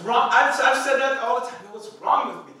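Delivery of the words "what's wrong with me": silly take. Shown as a demonstration. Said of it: "Now, that's silly".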